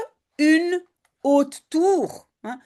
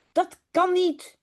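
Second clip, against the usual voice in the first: cri léger; 5 semitones higher, slower than usual. Acted. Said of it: "gilt Jip".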